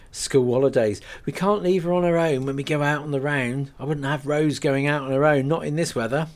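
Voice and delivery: matter-of-fact country woman; lightly voiced Rose. Rose explains to Kate why Poppy rides along, chatty.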